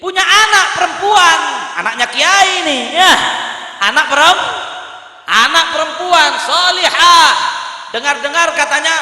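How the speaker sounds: emphatic storytelling from the pulpit, voice lifted; preaching narration. Acted. Preacher telling of a scholar and a king, rousing preaching. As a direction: tell it like a rousing sermon.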